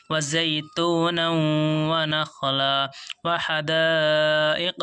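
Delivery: slow, drawn-out melodic tilawat; Quran recitation. Shown as a demonstration. Teacher reciting the verse to students in slow tilawat. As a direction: chant the verse slowly for the class.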